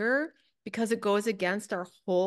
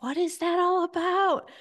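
much higher and louder, a squeaky protest; indignant inner voice; 10 semitones higher, 5 dB louder than usual. Retold or imitated. Questioning her own resistance, high squeaky indignant whine. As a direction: pipe up like a cranky kid. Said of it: "And I'm like".

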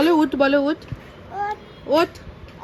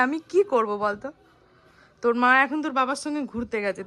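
usual speaking voice

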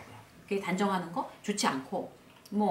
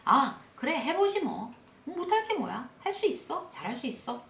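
self-encouragement; 5 semitones higher than usual. Acted. Models upbeat self-talk replacing complaint.

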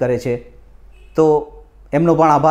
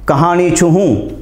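slow, declaimed verse with swooping line endings; measured, lilting Gujarati poem recital; poetry recitation; 3 semitones higher than usual. Acted. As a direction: recite it like a mushaira poet, pausing between phrases. Recites own muktak verse.

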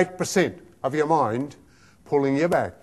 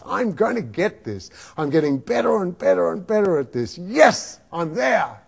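positive self-talk; 4 semitones lower than usual. Acted. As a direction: talk yourself up, calm and assured. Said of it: "We can make it into a voice like this".

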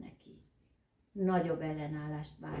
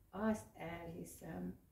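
softer and slow, crestfallen; saddened; 5 dB quieter, slower than usual. Acted. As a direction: let the words sink, sadly. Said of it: "szomorodott el a varjú". (szomorúan, halkan, lassan)

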